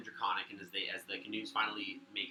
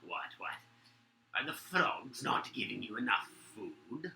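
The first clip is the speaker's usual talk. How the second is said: lightly voiced second guard; slower than usual. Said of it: "another voice in response to that goes".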